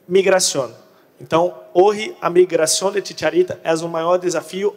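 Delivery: Portuguese speaker attempting Spanish; Portuguese mixed with Spanish words; portunhol. Real, not acted. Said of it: "hablo portunhol".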